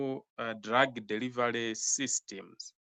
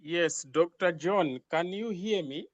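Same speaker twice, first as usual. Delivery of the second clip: speaking louder; 4 semitones higher than usual. Real, not acted. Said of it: "can you speak up, please".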